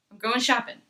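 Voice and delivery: "going shopping" as "goin' shoppin'"; both -ing endings cut to -in'; dropped G. Shown as a demonstration. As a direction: drop the G at the end of "shopping". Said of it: "sometimes this is getting deleted".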